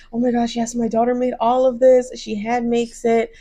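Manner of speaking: a hint of gushing mom; lightly voiced proud mom. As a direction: show off your kid, gently imitated. Acts out proud mom boasting.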